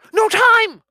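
high, loud brush-off; hurried boy. Acted. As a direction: shout it while rushing past. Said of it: "said someone hidden behind yet another mystery".

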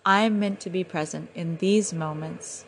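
calm, grateful resolve; relaxed. Retold or imitated. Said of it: "took a breath and relaxed".

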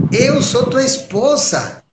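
hurt wife. Acted. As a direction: remind him, wounded, who you are. Parvati hurt, reproaching husband. (Parvati magoada com o marido, aguda e lenta)

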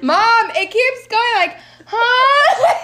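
lightly voiced small son at the door, puzzled; little boy.

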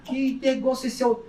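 surprised disbelief. Retold or imitated. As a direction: retell the shock at the ancient taxi. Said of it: "Eu falei". (surpreso, mais agudo e mais alto)

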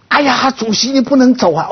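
high, anguished mock cry of an old worker; retold wailing plea. Old steelworkers bursting in to mourn the Chairman, imitated anguished wail. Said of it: "一些老工人就冲进来了".

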